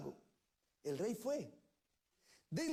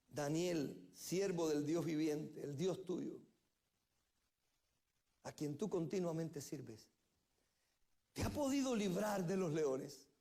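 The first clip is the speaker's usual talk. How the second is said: sad voice; 5 semitones lower, slower than usual. Retold or imitated. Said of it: "con voz triste le dijo". (voz triste, lenta y más suave)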